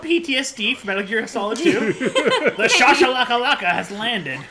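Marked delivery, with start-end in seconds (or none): 1.9-4.4 dramatic announcer. Pretend. Announcing like game radio.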